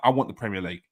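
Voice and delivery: eyes closed, yearning for the trophy; dreamy longing. Retold or imitated. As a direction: say it like you can taste it. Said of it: "I'm like".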